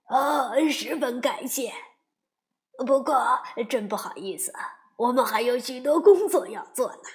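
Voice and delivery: busy, hurried beaver voice; a hint of a rushed worker.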